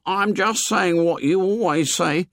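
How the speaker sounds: put-on high boyish voice, hurried; Piggy quickly backing down; soothing the angry chief, hastily; hasty Piggy. A narrator's reading. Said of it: "said Piggy hastily".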